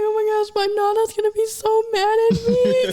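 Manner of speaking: high, panicky mock wail; retold freak-out. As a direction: re-enact a tearful panic. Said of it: "freaking out and everything".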